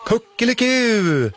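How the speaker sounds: high, slow playful mock crow; children imitating a rooster. A narrator's reading. The children answering the rooster with a high, playful mock crow. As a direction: answer the rooster like kids copying it. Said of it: "svarar alla barnen".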